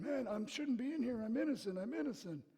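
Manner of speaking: high-pitched mock pleading; put-on high voice of a convict protesting innocence; protesting prisoners. Prisoners pleading their case to the king, in mock protest. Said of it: "everybody else is going".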